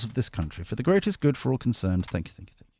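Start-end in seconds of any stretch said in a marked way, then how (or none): 2.1-2.7 hushed, breathy thank-you aside; whispered thanks. Real, not acted. Whispering thanks to Suki the cat.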